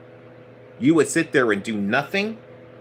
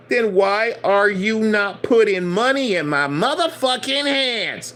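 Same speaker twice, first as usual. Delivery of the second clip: much higher, strained demand for the money; angry master; 8 semitones higher, slower than usual. Retold or imitated. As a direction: throw it out like a furious boss. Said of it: "You don't say it like that".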